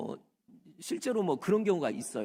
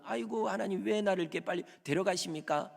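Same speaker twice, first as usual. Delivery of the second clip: higher, plaintive grumble; a lightly acted resentful lament; mock complaint; 5 semitones higher than usual. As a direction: complain to God half-heartedly. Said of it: "이렇게 원망할지 몰라요".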